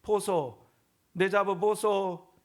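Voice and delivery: high, loud, slow Gyeongsang dialect tease; hammed-up Gyeongsang wife teasing. Pastor mimics a Gyeongsang wife teasing her husband, in Gyeongsang dialect. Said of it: "경상도 아내가".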